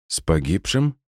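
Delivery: hoarse, rasping question. Acted. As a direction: ask it in a hoarse voice. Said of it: "хрипло спросила уже Люсинда".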